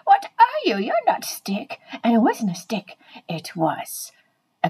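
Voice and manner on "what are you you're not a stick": very high, drawn-out mock panic; scared. Scared dog to the stick that roared, high mock panic. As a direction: wail it in exaggerated fright. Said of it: "I was very scared".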